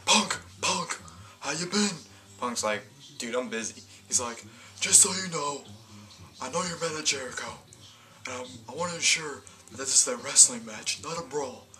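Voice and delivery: lightly hammed-up slimy general manager; smarmy boss. Laurinaitis voiced, smarmy boss.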